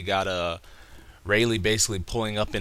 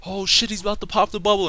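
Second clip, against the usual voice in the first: fast, very high alarmed cry; mock panic; 12 semitones higher, faster than usual. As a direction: imitate a crew panicking, rushed and pitched way up. Crew's alarm acted in retelling.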